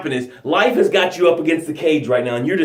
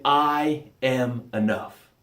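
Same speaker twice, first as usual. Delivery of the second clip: softer and slowed right down; soft slow mantra; 5 semitones lower, 6 dB quieter, much slower than usual. Shown as a demonstration. Coach to audience, quiet slow mantra. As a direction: let each word land gently, a quiet creed. Mantra set apart in speech.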